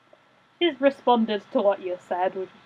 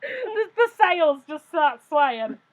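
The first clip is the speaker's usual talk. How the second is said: laughing; 4 semitones higher, slower than usual. Real, not acted. Laughing at the joke.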